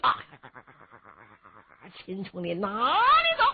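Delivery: loud battle cry after the fleeing hero; shouted challenge. A narrator's reading. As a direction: call out loud, pursuing. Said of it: "高声喊嚷就追呀".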